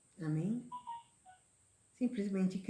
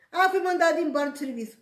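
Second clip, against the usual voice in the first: higher, louder, fast worried whine; mock complaint; 8 semitones higher, 7 dB louder, faster than usual. Preacher mimicking a worried believer's lament, fast and high. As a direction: rush it out like a fretful complainer.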